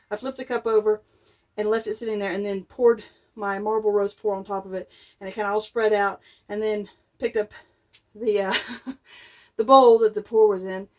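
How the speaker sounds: breathless, just came in from outside; out of breath. Real, not acted. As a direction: talk while catching your breath. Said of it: "I'm out of breath because I just came in from outside".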